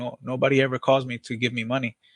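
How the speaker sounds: plain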